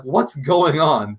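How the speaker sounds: very slow bewildered line through laughter; laughing confusion. Retold or imitated. Twilight fallen in the water, slow laughing confusion. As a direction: drag it out laughing.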